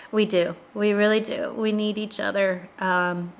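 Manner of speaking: choked up, voice fading to a whisper; holding back tears; teary-eyed. Real, not acted. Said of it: "Sorry, I'm all teary-eyed".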